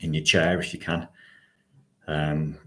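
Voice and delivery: measured guiding voice with long pauses; guided meditation. Acted. Host settles online listeners into their chairs, guided meditation. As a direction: guide listeners into posture, phrase by phrase.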